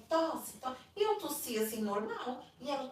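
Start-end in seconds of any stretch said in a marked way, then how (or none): 0.1-0.8 higher-pitched imitation of an ordering guard; retold curt order. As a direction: give the order as a retold command. Guard orders a strip-searched visitor.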